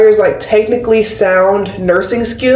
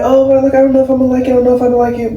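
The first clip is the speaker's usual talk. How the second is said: imitating doubtful boyfriend; 4 semitones higher, much faster than usual. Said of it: "But he was like".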